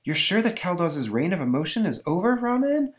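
high, uncertain heroine; questioning Elsa. Acted. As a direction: ask anxiously, pitch climbing to the end. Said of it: "rejoins Elsa".

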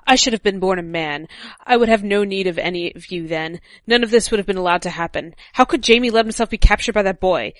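a hint of an angry Cersei; reading Cersei's lines. A narrator's reading. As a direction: read it like Cersei venting her frustration. Reads Cersei's quote.

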